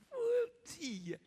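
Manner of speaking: high, tearful cooing mother; doting mother. Acted. Mother presenting her baby to the church, tearful cooing. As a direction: coo like a proud mom.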